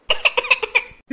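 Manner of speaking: loud, high coughing fit; choking cough. Acted. Wife chokes while eating with her husband, choking cough. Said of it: "பாரு எப்படி புறையேறுதுன்னு".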